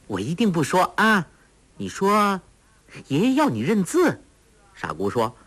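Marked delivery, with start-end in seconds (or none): 0.1-4.2 put-on higher, light, teasing girl; smiling coax. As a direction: coax her on with a smile. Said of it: "黄蓉笑道".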